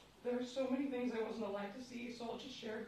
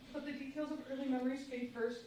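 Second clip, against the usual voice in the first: laughing; 3 dB louder than usual. Real, not acted. Still laughing after own joke.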